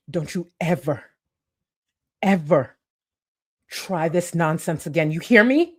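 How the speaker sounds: hammed-up dramatic speech to a rival; dramatic mock rant. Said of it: "as dramatic as I need it to be".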